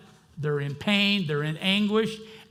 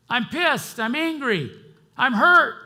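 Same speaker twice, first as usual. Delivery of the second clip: raw confession; 9 semitones higher, 9 dB louder than usual. Real, not acted. Confessing raw feelings to God.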